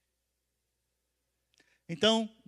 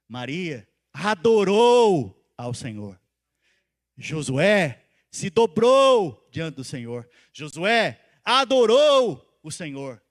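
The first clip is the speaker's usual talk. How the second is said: slow and louder, each phrase hammered out; slow, emphatic preaching; 3 semitones lower, 5 dB louder, much slower than usual. Acted. Preacher drives home to the church how Maria and Josué bowed, slow and loud. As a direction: preach it slowly, stressing every word.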